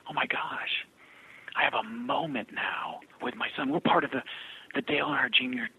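hushed, softly overwhelmed retelling; imitated tearful caller. Grateful mother telling Bob about her son, softly imitated tearfulness. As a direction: imitate her being moved, almost under the breath. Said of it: "she's crying on the phone".

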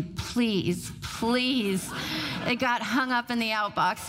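drawn-out, half-joking plea; mock pleading. Sender checking the outbox after hitting send, mock pleading. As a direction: plead with the outbox, stretching each please. Retold hoping email got stuck.

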